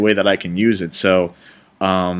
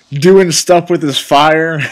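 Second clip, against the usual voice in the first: raised, slowed, louder mock scream; a hammed-up scream, higher and louder; 7 semitones higher, 6 dB louder, slower than usual. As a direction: ham up a fiery yell, dragging it out. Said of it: "he's screaming".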